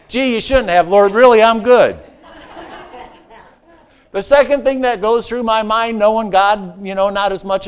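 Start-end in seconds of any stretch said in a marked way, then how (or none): 0.1-2.0 mock polite refusal, a bit louder; reluctant Joshua. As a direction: politely decline a gift you don't want. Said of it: "if I'm Joshua".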